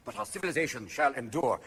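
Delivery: low, hushed, grave oratory; mock-statesmanlike gravity, low and soft; Tony Blair. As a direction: deliver a solemn statesman's vow softly. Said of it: "But it was Tony who said".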